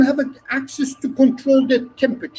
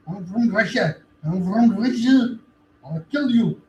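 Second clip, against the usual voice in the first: put-on Russian accent; 3 semitones lower, 3 dB louder than usual. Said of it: "why my accent is Russian now".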